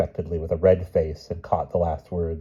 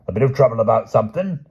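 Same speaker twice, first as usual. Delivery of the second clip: talking through a mouthful; mouth full; 5 semitones higher, 8 dB louder, faster than usual. Acted. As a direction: speak around a bite of food. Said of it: "with his mouth full".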